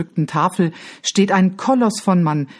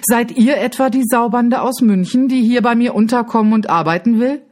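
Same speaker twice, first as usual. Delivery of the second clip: angry baron; 6 semitones higher than usual. Acted. Baron confronts the children angrily.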